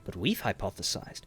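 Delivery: understated excitement, softly spoken; lightly eager, lifting at the end; a little peppy. Shown as a demonstration. Showing how he'd describe his passion, a little excited. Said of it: "gonna be a little excited".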